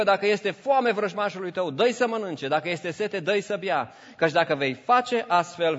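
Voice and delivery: high, ringing Bible reading; scripture reading. Acted. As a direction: proclaim the verse to the congregation. Reads scripture aloud.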